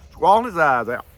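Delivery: loud, cracking sob through the words; breaking down in real tears; crying. Real, not acted. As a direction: voice breaks into squalling. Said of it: "kinda like I'm doing right now".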